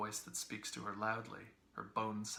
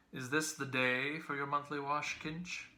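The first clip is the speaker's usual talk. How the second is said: bland; 4 semitones higher, 6 dB louder than usual. A narrator's reading. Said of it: "asked blandly".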